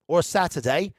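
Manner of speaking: light mock British accent; playful British-accented aside. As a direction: put on a quick British accent. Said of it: "That's my British accent".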